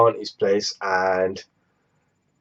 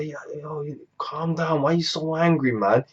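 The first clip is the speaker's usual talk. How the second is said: much softer, laid-back friend telling him to chill; calm as can be; 9 dB quieter than usual. Retold or imitated. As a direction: play it cool and unbothered, soft. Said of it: "He's just calm as F".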